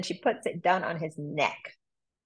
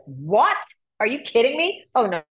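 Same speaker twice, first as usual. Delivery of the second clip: higher, louder outraged disbelief; outraged demon king; 4 semitones higher, 5 dB louder than usual. Retold or imitated. Demon king hears his men failed, outraged disbelief. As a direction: snap back in shocked disbelief. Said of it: "he's like".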